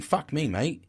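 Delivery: attempted British accent slipping into Australian; botched Australian accent. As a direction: try an accent and land in Australian. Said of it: "Why am I talking Australian".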